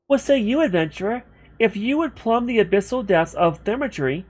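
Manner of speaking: put-on a young woman's voice, grand and formal; girl's voice. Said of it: "I can't do the girl's voice anymore".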